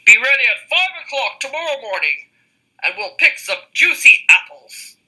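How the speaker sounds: wolf invitation. Acted. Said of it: "called the wolf".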